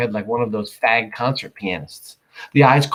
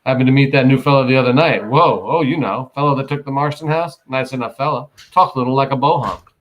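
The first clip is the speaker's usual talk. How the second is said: casual; 3 semitones higher, 3 dB louder than usual. Retold or imitated. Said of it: "he would just happen to say casually".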